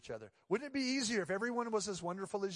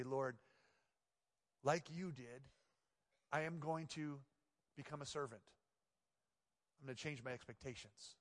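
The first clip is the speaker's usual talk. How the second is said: softer, bowed, humble prayer; 3 semitones lower, 6 dB quieter than usual. Pretend. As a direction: pray it quietly, surrendering.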